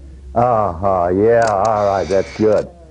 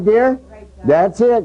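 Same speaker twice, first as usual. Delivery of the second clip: coaxing; 8 semitones higher, slower than usual. Real, not acted. Coaxing the model.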